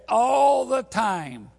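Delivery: slow, loud shouted response. Retold or imitated. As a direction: join the call and response. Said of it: "And I said".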